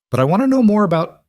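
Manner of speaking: put-on protesting little girl, cut off; whiny protest. A narrator's reading.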